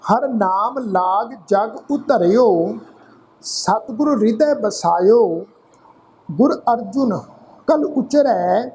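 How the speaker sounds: slow, measured Gurbani reading with drawn-out word endings; scripture recitation. Shown as a demonstration. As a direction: recite phrase by phrase, pausing between.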